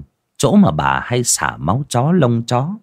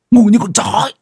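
loud, raised burst of scorn; angry insult; 13 semitones higher, 6 dB louder, faster than usual. A narrator's reading. Husband insulting his wife, loud angry burst. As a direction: spit the insult out loudly.

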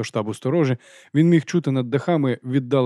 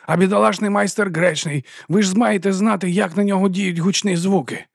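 angry berating; 8 semitones higher than usual. A narrator's reading. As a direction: hammer each word at him. Vons keeps scolding.

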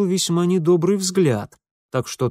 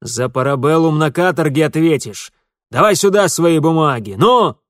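loud, rising bark of the police chief; 2 semitones higher, 7 dB louder than usual. A narrator's reading. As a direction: roar the order, ending on a yell. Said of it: "рявкнул исправник". (громкий рявк исправника)

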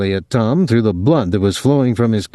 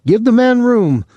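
professional calling out; 12 semitones higher, 3 dB louder than usual. A narrator's reading. Claude clearing the crowd for the fight, professional call. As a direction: clear the ring with a practised high call. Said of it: "Claude called professionally".

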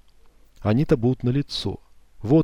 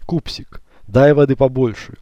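demanding; 3 semitones higher, 4 dB louder than usual. Acted. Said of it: "потребовал".

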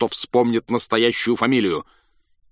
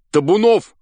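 much higher, loud eager question; eager guess; 12 semitones higher, 9 dB louder than usual. A narrator's reading. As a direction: throw out a hopeful guess. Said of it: "спрашивали у него".

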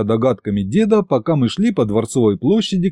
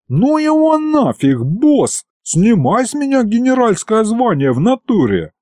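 high-pitched, whining outburst; agitated demon thug; 11 semitones higher than usual. A narrator's reading. Demon bursts in to quit as general, high agitated complaint.

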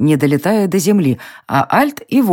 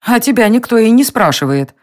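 higher, a snappy retort; snapping; 6 semitones higher than usual. A narrator's reading. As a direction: Varya snapping back at Dita. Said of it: "огрызнулась Варя". (огрызаясь)

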